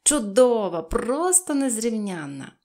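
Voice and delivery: loud, mannered gushing; affected delight, loud opening then drawn out; affected exclamation. A narrator's reading. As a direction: exclaim it grandly, like a fine lady. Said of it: "манірно вигукувала".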